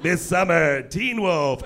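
lightly voiced trailer announcer; a hint of movie-trailer narration. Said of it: "dude who's doing the announcing".

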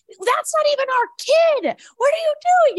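exaggerated high-pitched exasperation; very animated mom. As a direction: imitate a mom's animated scolding, not truly pissed. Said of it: "she's very animated".

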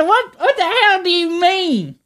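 put-on high, slow hick accent; hammed-up Southern redneck accent. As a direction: twang it like a country boy. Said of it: "I was talking like this".

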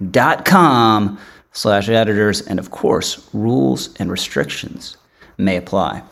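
lively, emphatic podcast ad read; polished host reading the sponsor spot. Real, not acted. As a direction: sell it to the listeners, key words punched and stretched.

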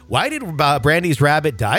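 lightly put-on Wisconsin accent. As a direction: play a Wisconsin local with the accent. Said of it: "right accent for the right area".

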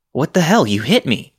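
outraged what-the-hell; shocked yell. Retold or imitated. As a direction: yell it at the man who just rammed you. Hit by car, yelling back.

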